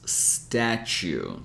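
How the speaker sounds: "statue" with the second T as a CH sound. Shown as a demonstration. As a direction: say "statue" as stat-chue. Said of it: "it would be like this".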